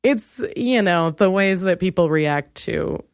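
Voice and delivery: normal talking voice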